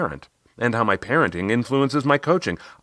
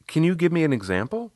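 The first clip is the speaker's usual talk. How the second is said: higher voice of a coaching client; Riley; 9 semitones higher than usual. Retold or imitated. Client asking her coach for an example, higher voice. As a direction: ask as the client, pitched up. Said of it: "She asked".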